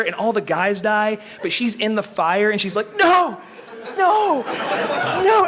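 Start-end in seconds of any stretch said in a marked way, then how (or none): 3.0-5.5 anguished screams. Retold or imitated. Retold friend screaming in fire.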